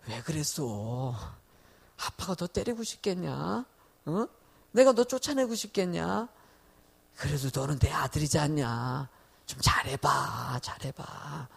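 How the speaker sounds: a remorseful father coaxing his son; soft tender father. Retold or imitated. Father gently pleads with his son after punishing him. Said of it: "또 마음이 막 약해가지고".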